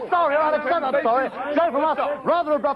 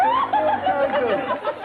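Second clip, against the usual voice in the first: very high, slow squeal of the answer; squeaky mock repeat; much slower than usual. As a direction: shriek it like a cartoon voice.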